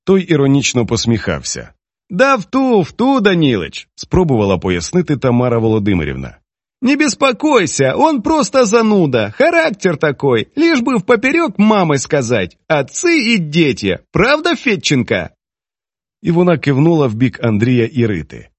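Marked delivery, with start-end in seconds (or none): 2.1-3.9 higher, lightly voiced older woman; Tamara. Tamara's character voice. 6.8-15.3 put-on much higher, dismissive older woman; Tamara. Tamara's character voice.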